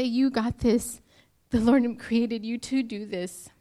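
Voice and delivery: pushing the words out through real tears; crying through it. Real, not acted. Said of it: "I didn't mean to cry in that part".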